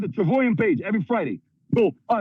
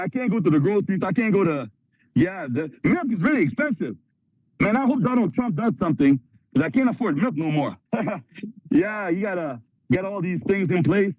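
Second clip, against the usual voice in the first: mock complainer; 4 semitones lower than usual. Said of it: "The rest of the world's like this".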